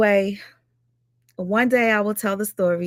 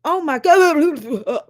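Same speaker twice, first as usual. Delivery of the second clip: drawn-out disgust; 7 semitones higher, 5 dB louder, much slower than usual. Real, not acted. Still reacting to gross video.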